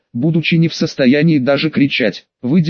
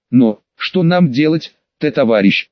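trembling whisper. Acted. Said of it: "дрожащим голосом прошептал".

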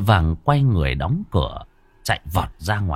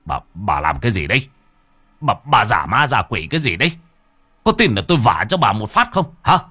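angry husband; 3 dB louder than usual. Acted. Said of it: "Ông Đào trợn mắt".

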